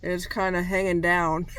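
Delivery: numb mouth, drooping side; numb from the dentist. Real, not acted. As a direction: talk through a numbed mouth. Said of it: "I'm gonna be talking funny 'cause".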